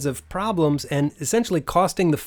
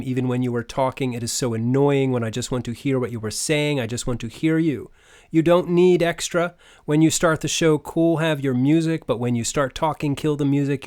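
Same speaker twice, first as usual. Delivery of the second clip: unpunctuated run-on reading. Retold or imitated. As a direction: read it as one long run-on sentence. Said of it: "the word that you need to look into is punctuation".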